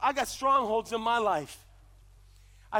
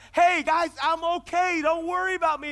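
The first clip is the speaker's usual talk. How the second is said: retold yell; 3 semitones higher than usual. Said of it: "I'm yelling on this branch".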